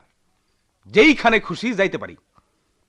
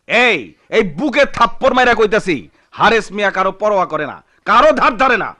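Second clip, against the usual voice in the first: defiant boast; 4 semitones higher, 5 dB louder than usual. Acted. Hares boasts, beating his chest.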